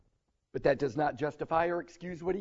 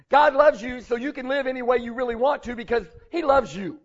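mocking; 5 semitones higher, 6 dB louder than usual. Mocking the false message of license.

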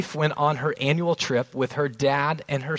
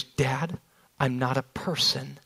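haughty princess; 3 semitones lower, 5 dB quieter, slower than usual. Retold or imitated. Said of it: "she gets up straight and she goes".

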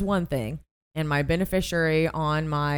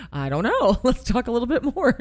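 laughing imitation; 7 semitones higher, 5 dB louder than usual. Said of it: "Brock was like".

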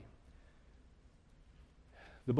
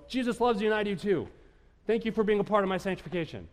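sugary mock-holy voice, higher; fake sweet piety; 6 semitones higher than usual. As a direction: put on a syrupy churchy tone. Mocking falsely pious reply.

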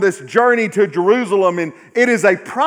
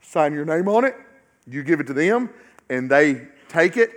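much lower and softer, close and confiding; hushed intimate preaching; 8 semitones lower, 8 dB quieter than usual. Acted. Preacher confiding to the congregation about giving, hushed. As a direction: draw the congregation in quietly.

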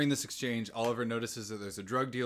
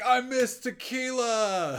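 high, loud, drawn-out whoop; mock drunken reveller's yell; party shout; 11 semitones higher, 7 dB louder, much slower than usual. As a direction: holler it long and high over a party. Acting Oliver's shout at the party.

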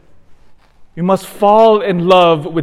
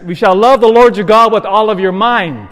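louder, raised scripture quote; forceful preaching; 4 semitones higher, 5 dB louder than usual. Acted. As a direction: proclaim it to the congregation. Preacher quoting Jesus with force.

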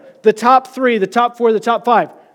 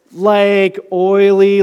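mock oily; much slower than usual. Shown as a demonstration. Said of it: "I'm thinking like".

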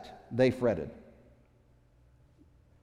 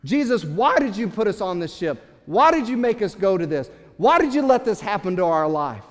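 pleading complaint; 4 semitones higher, 4 dB louder than usual. Pretend. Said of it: "Maybe it was in their hearts".

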